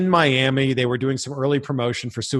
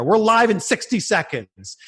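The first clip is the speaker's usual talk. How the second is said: producer countdown; 6 semitones higher than usual. Retold or imitated. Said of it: "my producer's like".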